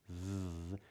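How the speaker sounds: "th" buzzing with voice, tongue between teeth; voiced TH. Shown as a demonstration. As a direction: buzz the "th". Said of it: "the voiced T H".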